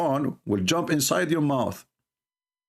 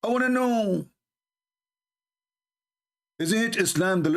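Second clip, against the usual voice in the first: mock pious voice; 8 semitones higher than usual.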